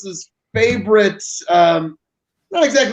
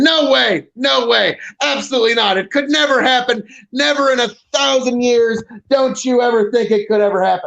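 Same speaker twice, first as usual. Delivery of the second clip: mock insistent denial; 4 semitones higher than usual. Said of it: "Tony's saying".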